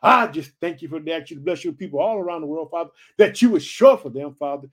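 low-pitched spoken prayer, with surges in volume; closing prayer. Real, not acted. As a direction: lead the congregation in earnest prayer.

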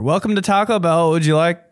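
lightly voiced drive-thru clerk; a touch of a chirpy drive-thru worker; drive thru speaker. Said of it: "you're talking to the drive-thru speaker".

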